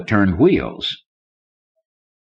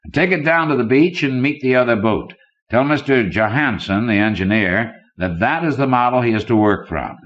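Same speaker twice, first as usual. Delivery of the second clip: a lightly raised, smooth threatening banker voice; a hint of a cool, menacing tycoon; villainous banker; 5 semitones higher than usual. Banker Conant coolly threatens the scientist Kidder, lightly voiced menace. Conant orders his gunman.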